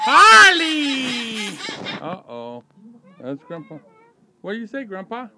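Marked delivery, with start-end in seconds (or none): 0.1-1.5 laughing call. Real, not acted. Calling the bird, laughing.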